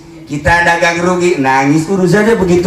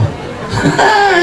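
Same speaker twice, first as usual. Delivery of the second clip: high mocking laugh. Laugh inside the acted taunt.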